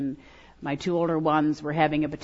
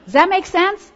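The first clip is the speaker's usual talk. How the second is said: incredulous; 13 semitones higher, 8 dB louder than usual. Acted. Mocking the Jericho battle plan.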